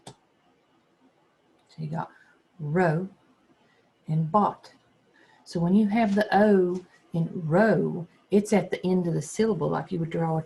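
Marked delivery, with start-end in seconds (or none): 2.6-4.7 "row" and "bot" said apart with a pause; syllables split apart. Shown as a demonstration. Teacher splitting robot into syllables, slow and separate. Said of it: "separate them as best as I can".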